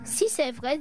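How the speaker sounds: ordinary delivery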